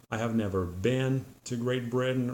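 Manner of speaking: "been" as "bin" with a short I; American been; American pronunciation. Shown as a demonstration. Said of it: "pronounced like this".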